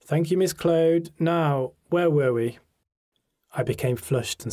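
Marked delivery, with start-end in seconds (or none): 0.0-2.6 Welsh teacher. A narrator's reading. Teacher's dry reply.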